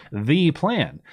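THE said as a long "thee"; mock-emphatic "thee" for THE; imitated emphatic THE. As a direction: stretch THE into "thee", imitating her stress. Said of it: "does this emphasis on the word the, like the".

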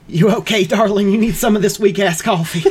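sweet-talking Southern charmer; Southern Mothman voice. Acted.

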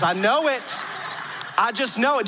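insistent imitated Southern grandmother; Southern belle accent. Grandmother sure about grandfather's family, insistent Southern accent. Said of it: "I'm gonna try to do her accent".

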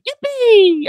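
put-on high squeaky child yippee; Anakin's yippee. Fan mocking the prequels, high childish squeal. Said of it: "one of Anakin's like".

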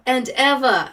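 lightly imitated Southern accent on one word; a touch of put-on Southern accent. Host quoting the actor's odd words, light Southern accent imitation. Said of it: "there's a few words he says".

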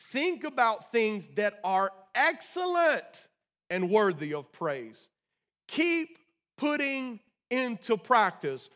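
slow, weighty reading with spaced-out words; scripture reading. Acted. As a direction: read scripture deliberately, pausing between phrases. Reads scripture aloud to congregation.

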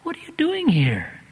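a rising gasp of disbelief from the mother; mother can't believe who's at the door; shocked mother. Retold or imitated. Mother at the door, stunned to see George, rising disbelief.

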